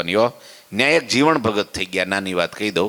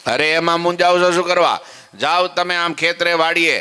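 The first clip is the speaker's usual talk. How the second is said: encouraging wife; 7 semitones higher than usual. Acted. Wife encourages worried husband.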